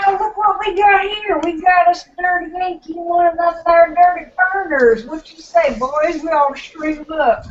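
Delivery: mock redneck. Mock lynch-mob redneck scene.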